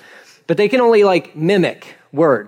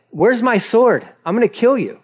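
acted anger, raised pitch; angry Balaam; 6 semitones higher than usual. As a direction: threaten like an enraged man, only half in earnest. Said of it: "he's so angry".

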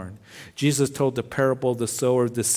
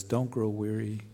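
soft and gentle, much softer, like comforting a tired friend; tender encouragement; 6 dB quieter than usual. Retold or imitated. Pastor quoting Paul to weary believers, softly and tenderly. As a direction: ease the words out tenderly and softly. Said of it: "very tenderly, he says".

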